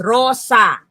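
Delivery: "Rosa" split into two even beats, RO-SA; two syllables. Shown as a demonstration. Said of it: "We have the two syllables".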